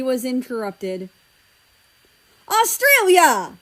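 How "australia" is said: loud, slow warning call of his name; stern scold. A narrator's reading. Britain scolding his son mid-insult. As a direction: call him out like a stern parent.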